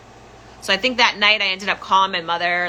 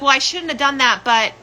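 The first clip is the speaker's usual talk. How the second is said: high mock mother; mother's voice; 6 semitones higher than usual. Mother on the phone, high, excusing herself. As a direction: mom excusing herself, pitched up. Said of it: "she's like".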